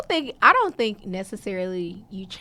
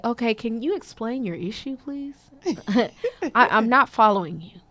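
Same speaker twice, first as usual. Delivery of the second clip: formal counsel voice. Shown as a demonstration. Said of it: "if I'm talking to opposing counsel".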